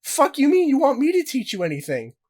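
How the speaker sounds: squeaky high lightly voiced Logan Paul; mock Logan Paul. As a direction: play him baffled at being asked. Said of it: "became self-aware and was like".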